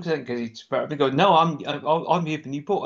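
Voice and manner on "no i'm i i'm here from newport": lightly attempted Brummie accent; poor Brummie accent. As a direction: imitate a Brummie, not very well. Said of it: "a Brummie accent from me".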